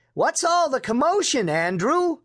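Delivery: high-pitched grandmotherly query; startled question. A narrator's reading. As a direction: ask high, taken aback by the commotion.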